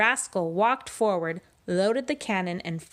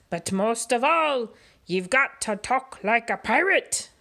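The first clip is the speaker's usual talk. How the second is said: gruff pirate captain speechifying, a bit higher; 5 semitones higher than usual. Acted. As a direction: preach the pirate code like a swaggering captain. Pete's pirate voice, held.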